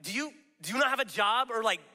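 exasperated disbelief. Retold or imitated. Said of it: "You're like".

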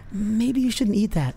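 a hint of a small voice of intuition; tiny inner voice. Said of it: "It's a tiny voice that goes".

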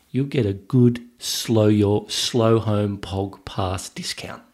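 drawn-out, slightly hammed-up Australian accent; Aussie accent played up for fun; put-on Aussie accent. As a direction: lay the Aussie accent on, slowly. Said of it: "That was my Aussie accent".

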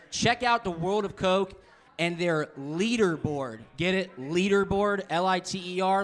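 sponsor ad read voice. Acted. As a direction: read it like a radio spot.

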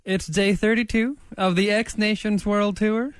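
animated mock diary reading; diary read-aloud. Reads Mad Lib diary aloud.

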